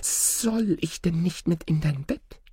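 high, wheedling snake with a long hissed s; pleading snake. A narrator's reading. Snake begs to share Oda's bed, pleading. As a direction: draw the words out high and slow, coaxing. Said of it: "so rief die Schlange wieder".

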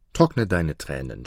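gentle voice. Acted. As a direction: soothe the weeping girl. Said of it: "sprach er mit sanfter Stimme".

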